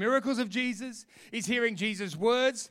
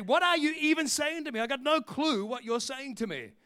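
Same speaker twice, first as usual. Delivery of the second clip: higher-pitched, baffled protest; mock exasperated retort; 4 semitones higher than usual. Preacher replaying his bafflement at mum, exasperated. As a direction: act out not understanding at all.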